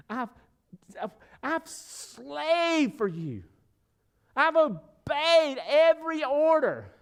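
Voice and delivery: a wounded son pleading his case; older brother's hurt. Acted. Older brother protesting his hurt to the father, slow and pained. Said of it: "Can you feel the older brother's pain".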